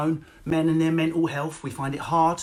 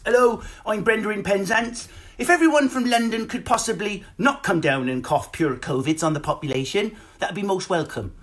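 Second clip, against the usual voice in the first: lightly voiced local nurse, polite plea; nurse in Penzance; 4 semitones higher than usual. Nurse asking Londoners to stay away, lightly acted.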